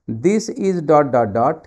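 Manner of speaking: very slow, drawn-out question reading; slow quiz read. Shown as a demonstration. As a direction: read the blank slowly, like an exam question. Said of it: "आपकी time start हो गई". (धीरे-धीरे प्रश्न पढ़ना)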